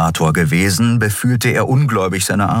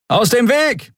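much higher urgent call. A narrator's reading. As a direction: shout the crowd aside. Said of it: "rief jemand in der Nähe".

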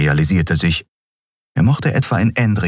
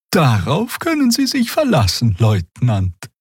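much higher, eager assurance; Xea's voice; 7 semitones higher than usual. A narrator's reading. Xea assuring the guard, much higher eager voice. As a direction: sound perfectly cooperative.

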